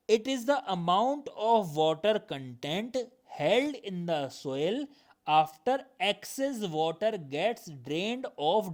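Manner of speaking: slow, deliberate textbook reading; measured classroom dictation, stretched words; definition read-out. Acted. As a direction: read it out word by word for note-takers. Reads definition out slowly.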